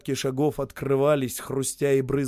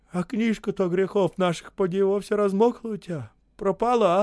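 teasing; 7 semitones higher than usual. A narrator's reading. Osip teasing narrator.

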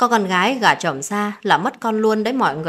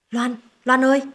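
calling out; 5 semitones higher, 4 dB louder than usual. A narrator's reading. Grandmother calling her granddaughter down, loud call. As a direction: call the name out, higher and louder.

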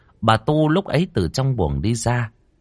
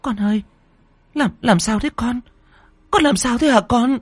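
much higher, urgent questioning; frantic old mother. Acted. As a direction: press her son with panicked questions. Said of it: "lao đến hỏi dồn". (bà mẹ hốt hoảng hỏi dồn)

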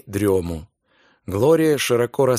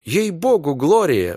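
exclaiming; 4 semitones higher than usual. Acted. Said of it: "воскликнул он".

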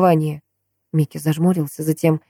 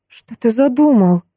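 put-on slow, higher, worried young woman; darkened question; 7 semitones higher, slower than usual. A narrator's reading. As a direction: ask it slowly as dread sets in. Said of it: "помрачнев спросила она".

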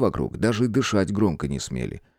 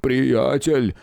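whimpering plea; 4 semitones higher than usual. A narrator's reading. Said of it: "взмолился хныкающий здоровяк".

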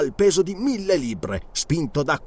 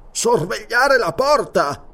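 mechanical; 8 semitones higher, 4 dB louder, slower than usual. Acted. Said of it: "Il guerriero parlò meccanicamente".

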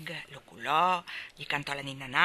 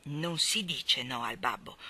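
low, slow firm reproach; father scolding his little boy; stern father; 5 semitones lower, slower than usual. Acted. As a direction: lay down the law calmly. Father scolding defiant son.

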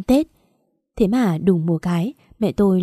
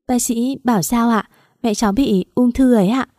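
holding back tears; 3 semitones higher than usual. Acted. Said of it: "cố không khóc nhưng nước mắt cứ chảy ra".

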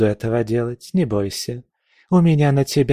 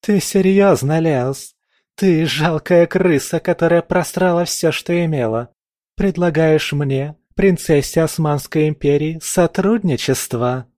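contemptuous scorn; 6 semitones higher, 4 dB louder than usual. A narrator's reading. Aisha insults Leos as a princess, loud with contempt. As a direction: spit the insults at him.

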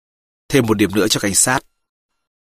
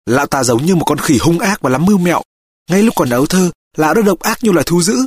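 embittered mother, voice rising higher; cay đắng; 4 semitones higher than usual. Acted. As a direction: denounce him with bitterness. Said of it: "bà nói về lão với một nỗi cay đắng". (giọng người mẹ cay đắng, cao dần)

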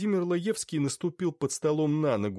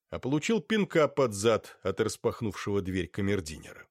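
ordinary delivery

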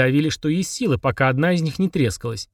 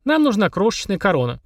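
higher-pitched proclaiming voice; grand proclamation; 6 semitones higher than usual. A narrator's reading. Polina proclaims the need for a crown, grandly. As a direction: announce it solemnly, pitched up. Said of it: "провозгласила Полина".

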